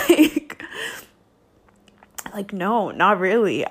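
real upset, close to sobbing; tearful. Real, not acted. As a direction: talk on through the crying. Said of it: "I think I'm gonna cry".

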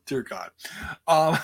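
recovering from choking; coughing it off with a laugh; swallowed wrong way. Real, not acted. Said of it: "as I'm choking on my water".

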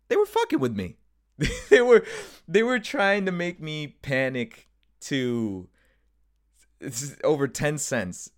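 high, loud laughing disbelief. Real, not acted. Reveals the prank, laughing.

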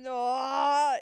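sudden loud exclamation; startled shout of oh. Real, not acted. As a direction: burst out with a loud oh.

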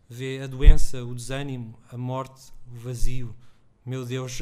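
steady literary reading aloud; story reading. A narrator's reading. Author reading his story aloud to an audience, steady narration.

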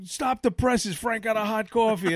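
high, hammed-up newsroom cry; mock big announcement. Deli guys teasing Frank about hot coffee, hammed-up headline voice. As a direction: announce it like breaking news, half-joking. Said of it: "they go".

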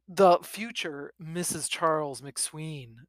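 slow, solemn declaration. Acted. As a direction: say it with mock solemnity. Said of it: "Sweeney says solemnly".

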